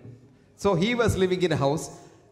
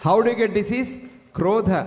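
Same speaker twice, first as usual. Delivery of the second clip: emphatic loud question; 3 semitones higher, 5 dB louder than usual. Real, not acted. Lecturer asks and answers emphatically.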